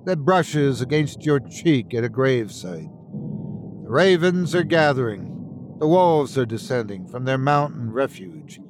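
urgent rallying address; Alistair, earnest podcaster, imploring. Acted. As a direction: appeal to listeners to join the resistance. Alistair exhorts his podcast listeners.

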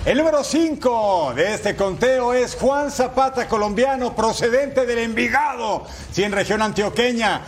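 lively highlight play-by-play; goal commentary. Acted. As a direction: call the goal replay with energy.

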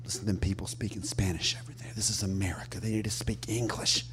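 Southern tourist voice. Retold or imitated. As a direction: imitate a grumbling Southern tourist. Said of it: "you hear one of them say to the other one".

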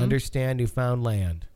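Understand Newfoundland, slow, land rhymed with stand; rhyming stress. Shown as a demonstration. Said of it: "The emphasis is on, on understand".

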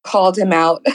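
hoarse, losing her voice; rough, worn-out hoarse voice. Real, not acted. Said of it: "So I'm losing my voice from last night".

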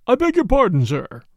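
polite startled butler; a touch of a startled manservant. Acted. Butler surprised at the door.

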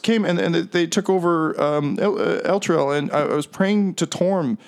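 halting plea of a man let down by his gods; confessing captive. Acted. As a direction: stumble through the confession. Game master plays confessing captive.

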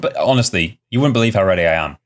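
normal talking voice

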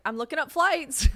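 playful mock announcement; joking. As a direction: toss it out high as a joke. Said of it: "I'll just, like, jokingly be like".

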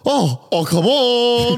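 "Oh, oh, come on" squealed very high and loud; high-pitched mock shout of greeting; imitating a loud bloke. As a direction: mimic the excited worker's squeal. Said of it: "all I hear behind me is a".

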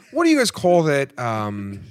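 loosely put-on Australian accent; attempted Australian accent. British ally asking Americans about a parade, botched Australian accent. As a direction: have a go at British, landing in Australian. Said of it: "this is more Australian than anything".

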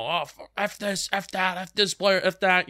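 imitating his younger hothead self, building to a mock rant; emotional outburst. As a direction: act out an angry college-kid fan venting. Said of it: "I'm a college student where I'm emotional".

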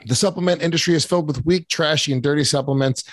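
hyped macho sponsor pitch; ad read. Acted. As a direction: boast like a gym-bro pitchman.

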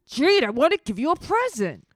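high, whiny pleading; mock pleading boyfriend. Him begging Jade to understand, mock whiny plea. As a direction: plead it with hammed-up hurt. Listener joins the pleading act.

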